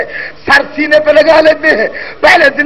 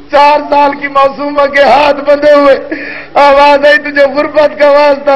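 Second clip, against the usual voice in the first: sung-spoken lament, voices of Sakina and Sajjad woven in; mournful masaib recitation. Acted. Preacher recounting Sakina's prison death to mourners, wailing lament chant. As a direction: chant the grief to the mourners, drawing out each line.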